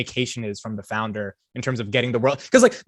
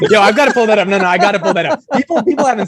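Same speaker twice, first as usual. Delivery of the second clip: loud, high, excited insistence; excited shout over the laughter; real excitement; 7 semitones higher, 8 dB louder than usual. Real, not acted. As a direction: burst in loudly, eager to show it. Thrilled, insists on pulling up clip.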